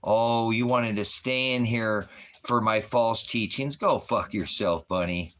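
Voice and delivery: loud, slow furious rant; angry yell. Real, not acted. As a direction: shout them down, loud and slow. Yelling at chatter.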